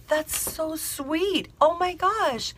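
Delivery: high, soft, drawn-out gush; gushing bride. Retold or imitated. Voices the bride's gushing reply.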